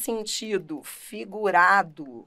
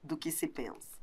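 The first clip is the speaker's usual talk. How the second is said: whispered ending; 5 semitones lower, 14 dB quieter than usual. Shown as a demonstration. Finishing the definition.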